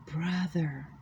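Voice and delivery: soft, lightly put-on African woman's accent; a hint of an African woman's accent whispered close to the ear; African female accent. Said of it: "it's with an African Negro female accent".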